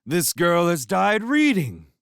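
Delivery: high, loud, slow mock grief; mock lament. A narrator's reading. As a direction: mourn her like a tragedian. Lewis mock mourning.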